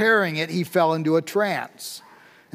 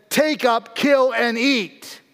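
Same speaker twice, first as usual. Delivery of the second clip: commanding, slow, raised voice of God; 4 semitones higher, slower than usual. Acted. Preacher voicing God's command from heaven, raised and slow. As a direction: boom out the divine command, slowly. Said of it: "and the voice says".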